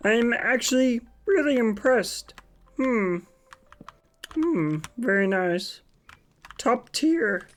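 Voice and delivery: lightly voiced Kermit the Frog; a hint of Kermit, judging builds. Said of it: "a Kermit voice the entire stream".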